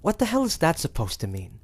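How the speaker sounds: fed-up hunter demands answers, angry. Acted. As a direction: snap back in anger. Hunter angered by cryptic demon.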